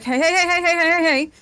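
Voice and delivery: soothing. Acted. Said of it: "try to calm it down".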